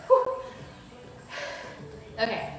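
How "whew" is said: winded exhale. Real, not acted. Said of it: "let me catch my breath really quick".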